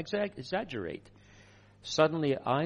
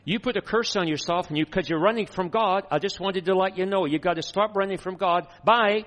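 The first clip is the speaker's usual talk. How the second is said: high, loud Texan rattle; hammed-up Texan woman telling someone off on the phone; Cindy Jacobs; 8 semitones higher, 7 dB louder than usual. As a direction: imitate a Texan caller, high and forceful. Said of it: "Cindy in her Texan accent".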